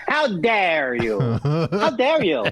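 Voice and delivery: drawn-out, offended "How dare you?"; milk the outrage, slowly; slow, hammed-up affront; slow mock indignation. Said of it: "I say".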